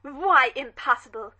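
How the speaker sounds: a dowager pouncing on a slip; suddenly suspicious challenge. Acted. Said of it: "At once suspicious".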